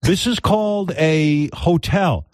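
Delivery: mock-patient teaching; patient explainer. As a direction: spell it out slowly for a clueless listener. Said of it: "and he tells her".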